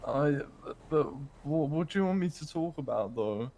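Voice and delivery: lightly voiced Irish lilt; put-on Irish accent. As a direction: keep the Irish accent going. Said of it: "he sounds like a posh, a sad English boy".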